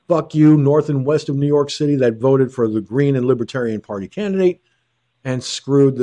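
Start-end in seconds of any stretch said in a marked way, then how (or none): 0.1-2.0 loud, spat-out curse; angry outburst. Real, not acted. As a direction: hurl it at them. Cursing out voters.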